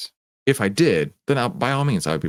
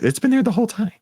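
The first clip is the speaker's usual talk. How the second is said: amused surprise; 13 semitones higher, faster than usual. Real, not acted. Amused exclamation about the Santa.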